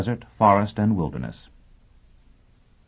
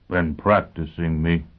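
mumbled; slower than usual. Acted. Foyle avoiding his teacher's question, mumbled. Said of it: "he mumbled".

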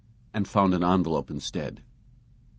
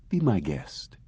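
whispered reply; slower than usual. Acted. Robot driver replies.

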